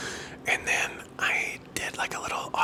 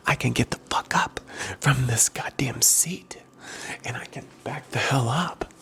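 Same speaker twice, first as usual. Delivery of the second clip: gently voiced, barely above a whisper; soft-spoken voice. Real, not acted. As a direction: speak softly like an ASMR host. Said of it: "talk to you in a soft-spoken voice".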